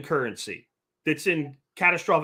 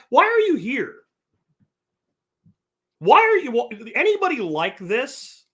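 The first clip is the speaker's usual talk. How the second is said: higher and louder, fed up; exasperated outburst; 6 semitones higher, 4 dB louder than usual. Real, not acted. Streamer to a hostile chatter, exasperated and louder. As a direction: demand it, loudly, at the troll.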